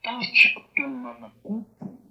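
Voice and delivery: Tacha tu manacupu high and loud; demo phrase. Shown as a demonstration. Teacher reads out the long true word, high and loud.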